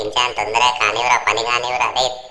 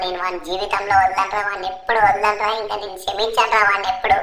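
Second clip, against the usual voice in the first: urgent, anxious muttered-to-self rush; frantic Franklin; 11 semitones higher than usual. Acted. Franklin rushes Chinchan to hospital, urgent and upset. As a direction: reassure the injured friend while panicking.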